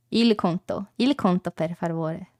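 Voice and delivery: "Il conto, il conto, per favore" said softly and settled; corrected Italian. Shown as a demonstration. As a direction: say "il conto" quietly, now sure. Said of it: "I'm learning now".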